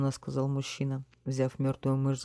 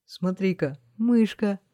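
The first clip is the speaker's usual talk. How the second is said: surprised; 4 semitones higher, 6 dB louder, slower than usual. A narrator's reading. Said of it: "удивлённо сказал один из воров".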